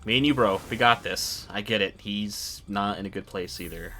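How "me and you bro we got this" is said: loud, pumped-up rallying call; hyped up. Real, not acted. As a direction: fire up your buddy. Rallying after a tense cutscene.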